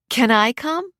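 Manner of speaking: light, high-pitched playful question; laughing. A narrator's reading. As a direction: ask playfully, with a touch of amusement. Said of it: "Lori laughed".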